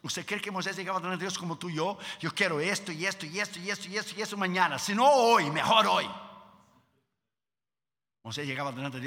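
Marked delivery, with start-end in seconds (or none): 2.2-6.1 mock demanding prayer. Demanding prayer mocked, fast.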